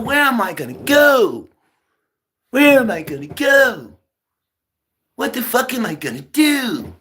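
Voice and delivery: desperate mock yell; frantic shout. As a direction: yell it like you've got nowhere to go. Ranting about being kicked out at eighteen.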